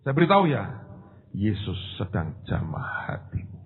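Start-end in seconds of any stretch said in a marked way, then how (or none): 1.3-3.6 hushed, soft unvoiced whisper. Real, not acted. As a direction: breathe the words softly and tenderly. Pendeta berbisik saat pelayanan. (berbisik lembut)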